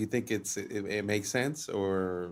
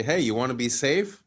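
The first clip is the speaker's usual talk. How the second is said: mock sales pitch; 3 semitones higher, 5 dB louder than usual. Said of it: "subconsciously say".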